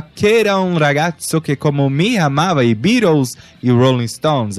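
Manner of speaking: song title with a light Italian accent. Shown as a demonstration. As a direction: give it a sing-song Italian lilt. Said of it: "fiz até um sotaque italiano".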